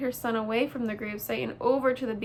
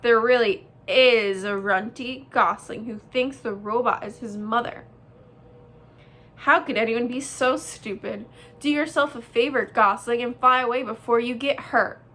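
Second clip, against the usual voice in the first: mocking bear; 5 dB louder than usual. Sister bear mocking, loud.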